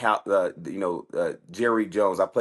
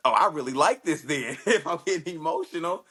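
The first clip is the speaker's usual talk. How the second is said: higher, laughing aside; laughing realization; 6 semitones higher than usual. Real, not acted. Fighter recalling his first loss, laughing at himself. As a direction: laugh through the thought.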